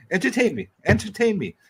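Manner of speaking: hammed-up demand to be entertained; mock taunt. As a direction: taunt him like a bored emperor. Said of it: "Gladiator quote taunt".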